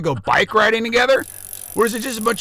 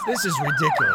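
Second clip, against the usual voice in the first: outraged squeak. Acted. Radio host squeals at his team's board operator. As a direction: voice jumps way up into a squeal of disbelief.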